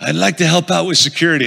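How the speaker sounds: lightly voiced tough guy; a hint of the mob guard; understated mobster impression; intimidating mobster. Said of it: "this is exactly how he sounds".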